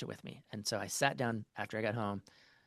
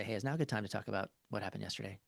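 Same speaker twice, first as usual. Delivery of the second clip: gentle consent ask; 5 dB quieter, faster than usual. Shown as a demonstration. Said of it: "It's getting consent to say".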